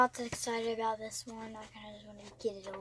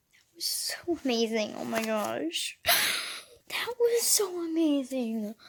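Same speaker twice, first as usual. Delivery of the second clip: awed whisper. Real, not acted. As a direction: breathe it out in awe. Overwhelmed after finishing book.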